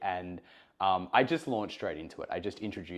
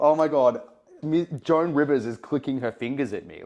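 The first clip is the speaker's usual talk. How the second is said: inner panic; 7 semitones higher, 9 dB louder than usual. Retold or imitated. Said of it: "but I thought".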